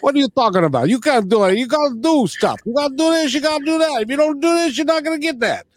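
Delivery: hammed-up Boston tough guy insisting; Boston attitude. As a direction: imitate a brash Boston guy arguing. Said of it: "with his Boston attitude".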